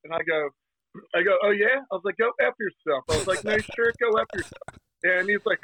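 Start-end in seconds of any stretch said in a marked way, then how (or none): 1.4-1.8 mock defiant retort. Acting his own sarcastic retort. 2.2-3.0 mock defiant retort. Acting his comeback to the stranger. 3.4-4.7 mock defiant retort. Mimicking what Jersey sarcasm means.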